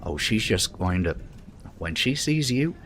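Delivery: ordinary delivery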